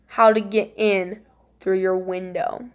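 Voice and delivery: low, slow, eerie threat; drawn-out low imitation of an intruder; creepy intruder. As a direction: voice a spooky visitor, unhurried and hushed. Voicing creepy thing behind door.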